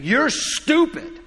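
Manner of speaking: put-on high, slow, whiny child taunt; a child's mock yell; bratty kid yelling. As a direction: mimic a spoiled kid shouting at mom. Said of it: "just yelling at his mom".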